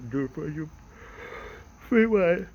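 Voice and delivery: high, loud squeaky playful lilt. Pretend. Playful repeat of his plan.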